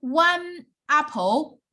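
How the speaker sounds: one apple said slow and clear, stress on one; teacher models one apple slowly for English learners; slow example. Shown as a demonstration. Slow, clear teaching example. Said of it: "You guys will say".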